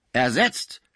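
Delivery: aghast, rising disbelief; horrified cry. A narrator's reading. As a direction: gasp the word out in horror. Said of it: "rief Pons entsetzt aus". (entsetzter Ausruf)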